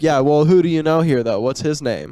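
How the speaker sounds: lightly voiced frat bro; a hint of a pushy frat guy; party animal. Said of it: "That was a really good impression of a frat guy".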